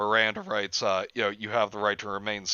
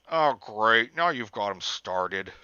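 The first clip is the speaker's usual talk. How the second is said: annoyed scolding; slower than usual. Acted. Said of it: "Troy scolded in an annoyed tone".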